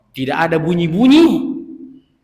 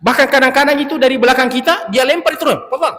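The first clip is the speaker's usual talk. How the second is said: higher and louder, worked up; raised, incredulous retelling; animated; 6 semitones higher, 5 dB louder than usual. Real, not acted. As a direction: tell it with amazed emphasis.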